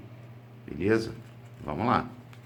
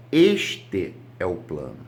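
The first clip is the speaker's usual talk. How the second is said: slow, weight on "este"; teacher drilling "este é o plano"; stress on este; 5 semitones lower, 3 dB louder, slower than usual. Shown as a demonstration. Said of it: "Por quê? Porque quando eu uso este".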